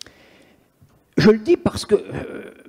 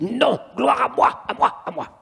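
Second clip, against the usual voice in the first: demon's voice; 5 semitones higher than usual. Retold or imitated. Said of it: "Il dit".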